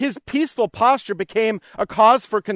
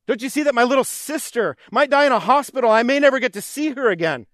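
imitated anguished plea; 3 semitones higher than usual. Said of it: "to feel just like the disciples did".

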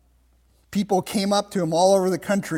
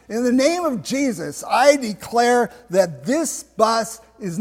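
raised, emphatic proclamation; loud declaration; 4 semitones higher, 3 dB louder than usual. Retold or imitated. Driver declares his empty bus a sanctuary, loudly. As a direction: declare it boldly, pitched up and deliberate. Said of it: "and say loudly".

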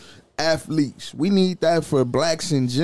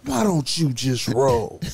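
slow, lower quoted catchphrase, lightly imitated; Jamie Foxx catchphrase; 6 semitones lower, slower than usual. Podcaster wishing for a soundboard button, slow mock catchphrase. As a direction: draw out a borrowed catchphrase, pitched down. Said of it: "Oh, Jamie Foxx".

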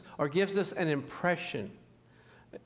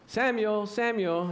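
a touch of the Lord calling in the night; calling voice of God; 4 semitones higher, slower than usual. Retold or imitated. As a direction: call his name out across the night. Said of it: "the Lord came to him ... and said".

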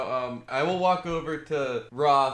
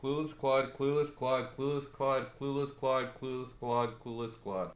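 rapid tongue twister; 5 dB quieter than usual. Shown as a demonstration. Player takes the dare to say it five times fast, rapid tongue twister. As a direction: rattle it off in an even, repeated chant. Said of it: "Say that five times fast".

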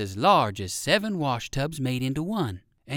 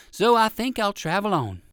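put-on higher, polite old gentleman rabbit; 6 semitones higher, 5 dB louder than usual. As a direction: decline kindly as an old rabbit. Uncle Wiggily decides.

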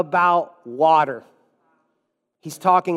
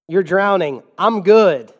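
louder, brusque mock brush-off; put-on defensive refusal; acted defensive; 5 dB louder than usual. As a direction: wave off help defensively. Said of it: "she is defensive".

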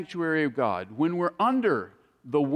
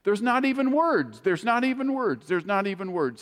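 awestruck repetition; 3 semitones higher than usual. Retold or imitated. Preacher mimicking the testifier who keeps repeating himself, awestruck. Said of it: "He just keeps repeating it".

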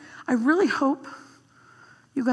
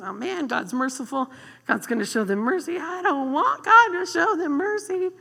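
whiny Jonah; 5 semitones higher than usual. Retold or imitated. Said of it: "he goes".

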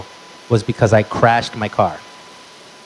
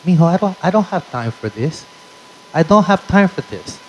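hurried, exasperated Latina mom, pitched up; a busy mother brushing her son off; mock harried mom; flustered mom; 5 semitones higher than usual. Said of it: "She goes".

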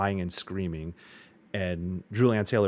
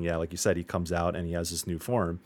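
ordinary talk, nothing marked

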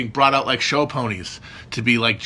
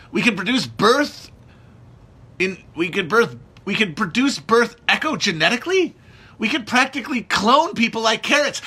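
embittered doctor rant; 3 semitones higher than usual. Acted. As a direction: play a burnt-out hospital chief venting. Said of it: "It's called The Hospital".

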